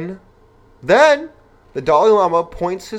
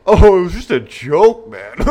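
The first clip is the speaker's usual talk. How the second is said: mock excuse; 4 semitones higher, 7 dB louder than usual. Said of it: "and act like".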